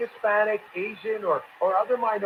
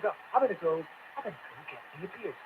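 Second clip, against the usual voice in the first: mock folksy beer line, lower and much softer; mock folksy drawl; 6 semitones lower, 8 dB quieter than usual. Host parodies Warren's beer video, soft folksy mock. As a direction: parody a forced down-home voice. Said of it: "she goes".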